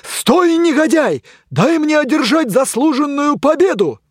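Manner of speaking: loud, very high furious chase cry; chasing yell. Acted. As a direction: yell while giving chase. Knight chases hero.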